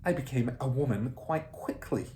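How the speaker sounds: a grinning, smug headmistress. Acted. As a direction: say it with a grin.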